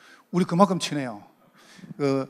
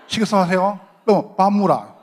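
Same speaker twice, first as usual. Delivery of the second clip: Gyeongsang dialect; 4 dB louder than usual. Shown as a demonstration. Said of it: "요게 각인이라".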